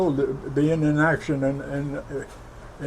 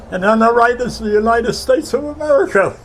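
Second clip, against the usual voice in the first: loud, higher calling out; announcement called out; 8 semitones higher, 6 dB louder than usual. Retold or imitated. Ship's loudspeaker tells the troops they see America, loud call. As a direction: announce it across the deck.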